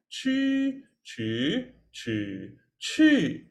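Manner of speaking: chi in first, second, third and fourth tone. Shown as a demonstration. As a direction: sing the Mandarin tones through chi. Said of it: "play four tones?".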